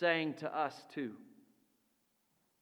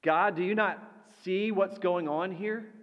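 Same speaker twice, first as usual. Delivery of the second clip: raised and higher, crying out to God; desperate plea; 4 semitones higher than usual. Acted. A believer crying out to God in a storm, pleading and raised. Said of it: "the words we often address to God".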